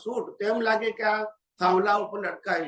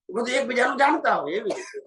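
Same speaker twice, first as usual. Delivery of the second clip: usual speaking voice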